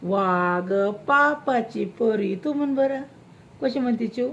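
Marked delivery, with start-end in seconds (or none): 0.0-2.4 imitating the little one. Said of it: "ती चिऊ बारकी कशी करते?".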